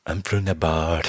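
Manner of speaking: a called-out mock South American accent. Friend faking a South American accent at the gate. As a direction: shout it like a fake South American recruit. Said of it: "With that accent".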